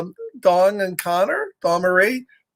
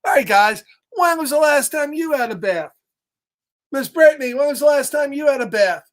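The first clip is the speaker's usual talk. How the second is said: put-on pigeon quizzing kids; 6 semitones higher than usual. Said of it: "So the pigeon's like".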